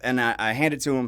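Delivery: ordinary talk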